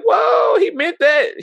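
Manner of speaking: high, loud whoa breaking into laughter; shocked yell dissolving into laughs; laughing shock. Retold or imitated. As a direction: shout it while cracking up in disbelief. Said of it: "I'm like".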